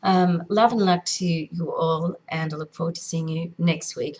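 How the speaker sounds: hoarse, croaky sign-off. Real, not acted. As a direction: speak through a croaky throat. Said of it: "not so much of a croaky voice".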